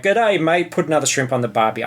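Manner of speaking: lightly imitating the ocker Aussie accent; mock Australian cliche. Podcaster mocking Hollywood's Australian stereotype, mock ocker Australian. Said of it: "and it's that, like".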